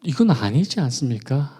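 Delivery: starts hushed, then breaks into a high loud cry; protesting to God. Retold or imitated. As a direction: let the hurt build until it bursts. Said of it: "하나님께 따졌습니다".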